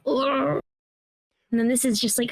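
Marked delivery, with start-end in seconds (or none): 0.0-0.6 drawn-out "ugh" of discomfort; disgusted groan. Acted. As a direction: groan as if watching someone get hurt. Acts own disgusted reaction to videos.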